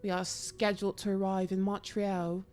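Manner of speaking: a hint of a put-on British accent, slow and level; bad British accent. Shown as a demonstration. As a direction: read the letter in a mild, clumsy English accent. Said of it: "That was terrible".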